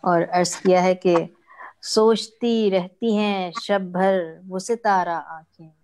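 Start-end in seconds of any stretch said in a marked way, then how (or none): 1.8-5.7 measured, drawn-out verse delivery; mushaira-style poetry reading; ghazal recitation. Acted. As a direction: recite each half-line deliberately, pausing before the refrain.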